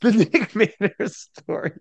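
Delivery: slow, grand title read; playful trailer voice; mock movie trailer voice. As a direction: announce it like a trailer.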